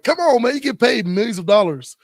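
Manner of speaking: worked-up fan urging a holdout to sign; exasperated fan. Acted. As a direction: plead with the player like an impatient fan. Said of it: "I'm like".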